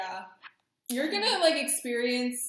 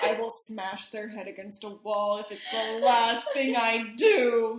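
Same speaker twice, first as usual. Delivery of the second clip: mock betrayed fury; 4 dB louder than usual. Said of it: "so you're like".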